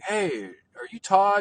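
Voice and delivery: high-pitched imitation of an old guy hailing someone; mock friendly greeting. Old acquaintances greeting, retold.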